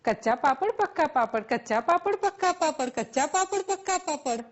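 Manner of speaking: quick run, "કચ્ચા" and "પક્કા" kept distinct; fast tongue twister. Shown as a demonstration. Teacher challenging students, rapid "કચ્ચા પાપડ, પક્કા પાપડ" said correctly. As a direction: rattle off "કચ્ચા પાપડ, પક્કા પાપડ" without slipping. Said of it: "શું તમે બોલી શકશો".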